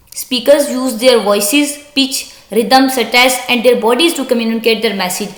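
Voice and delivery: slow, deliberate reading aloud of an English text; slow textbook reading. Acted. Teacher reading the textbook sentence to students, slow and deliberate. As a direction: read it out word by word for the class.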